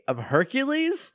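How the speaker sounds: a playful, lightly hammed-up Hercules; mock Hercules. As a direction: drawl out the name like a pompous god. Mock introduces himself as god.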